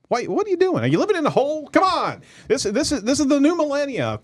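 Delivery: playful high-pitched scolding of the audience; mock scolding. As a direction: tease them like you're shocked they missed it. Host teasing viewers who missed show.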